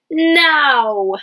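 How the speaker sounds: exclaimed now; emphatic now. Shown as a demonstration. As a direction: call it out. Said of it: "exclamation marks for emotion".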